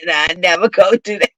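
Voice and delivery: put-on a pleading kid, half sobbing; whimpering child. Child promising mama through tears, whimpering. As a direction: beg like a caught child. Kid crying mid whooping.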